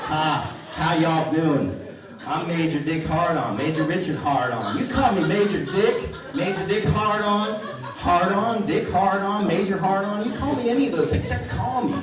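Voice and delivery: loud, high, hammed-up Texas wingman; Texas accent. Wingman introducing himself as Major Dick Hardon, loud Texas accent. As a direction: boom it out in a put-on Texas accent. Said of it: "in a Texas accent".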